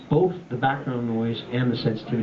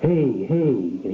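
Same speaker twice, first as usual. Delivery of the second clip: edge distortion. Shown as a demonstration. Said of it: "add a little bit of edge to my voice".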